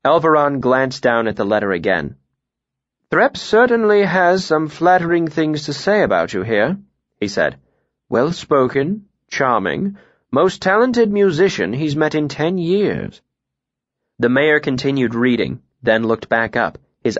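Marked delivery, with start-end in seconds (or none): 3.1-6.8 high-pitched mayor remarking on a letter; appraising mayor. Acted. Mayor reads out letter's praise. 8.1-13.2 mayor. Acted. Mayor reads out letter's praise.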